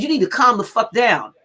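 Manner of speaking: loud, firm telling-off; retold rebuke. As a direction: shut the outrage down forcefully. Retold sharp rebuke to listeners.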